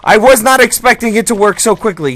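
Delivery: high, loud delighted outburst; thrilled it actually works; excited surprise. Real, not acted.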